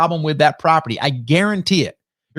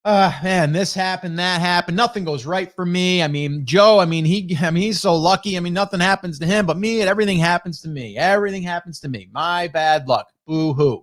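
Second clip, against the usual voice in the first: mock constant complainer. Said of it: "that constant complainer".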